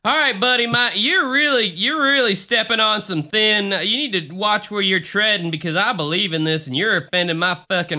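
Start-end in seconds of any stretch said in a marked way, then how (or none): 0.0-5.7 high, loud mock-indignant scolding; mock outrage. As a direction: play the offended believer, hammed up. Mock offended believer scolding.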